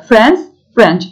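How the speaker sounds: France and French as two distinct words; careful pronunciation model. Shown as a demonstration. Teacher showing learners France and French, careful pronunciation. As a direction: model France, then French with a falling end. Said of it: "Telaffuzlara dikkat ederek gidiyoruz arkadaşlar".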